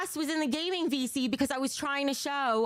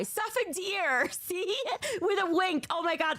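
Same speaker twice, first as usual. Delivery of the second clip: delighted squeal; 9 semitones higher than usual. Real, not acted. Delighted seeing cute deer.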